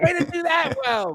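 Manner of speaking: cheery, encouraging coach voice, very high-pitched. Imitating a colleague who cheers people on: upbeat coach voice. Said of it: "She's like".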